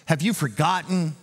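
mock rebuke. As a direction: scold as if in disbelief. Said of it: "couldn't God have rebuked him".

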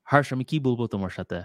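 Bangla with a strong American accent; casual demo of American-accented Bangla. Shown as a demonstration. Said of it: "that very strong accent, like, American accent".

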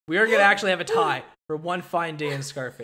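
loud, laughing disbelief; excited laughing shout. Real, not acted. Shock at a tied vote.

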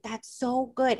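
a touch of Jersey drawl on the phrase. Retold or imitated. Host mimicking her own catchphrase, mild Jersey drawl. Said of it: "I say it with that Jersey drawl".

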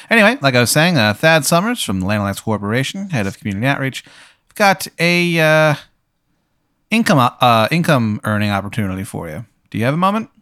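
eager, pitchy door-to-door pitch; a salesman pushing his offer hard; nervous hopeful door seller. Acted. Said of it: "he's like".

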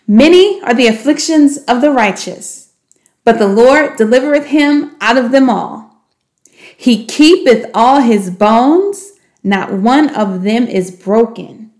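measured, slowing reading of scripture; scripture recitation. Shown as a demonstration. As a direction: recite it like a memory verse, slowing at the end.

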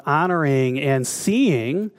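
"seeing" drawn out with emphasis; stress on seeing. Real, not acted. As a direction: lean slowly on the word "seeing". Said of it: "emphasis on that word".

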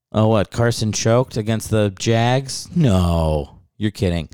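sarcastic fake shock; mock surprise. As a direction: gasp like you never saw it coming.

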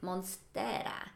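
Monstera said slowly in a light Italian accent, tapped r. Shown as a demonstration. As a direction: Monstera with an Italian lilt, MON-ster-a drawn out. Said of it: "I'm doing the whole Italian accent thing probably".

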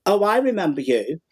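laughing through the words; laughing recognition. Real, not acted. Guest recognising the troublemakers at the back, laughing. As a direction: chuckle it as it dawns on you.

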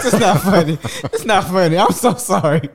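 giggling while apologizing; laughing through sorry; laughing apology. Real, not acted.

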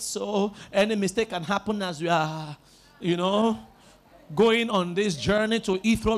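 low, subdued pilot on the intercom; pilot announcement. Pretend. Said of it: "and the pilot say".

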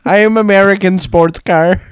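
lightly mocked Filipino agent; Filipino accent. Agent giving an absurd made-up name, Filipino accent. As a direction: introduce yourself in a put-on Filipino accent. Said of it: "Your Filipino accent might be".

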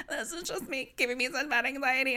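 high, put-on dramatic whine; mock Kyle voice. Mocking Kyle blaming everything on anxiety. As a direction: mimic her in a falsetto. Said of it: "She'd be like".

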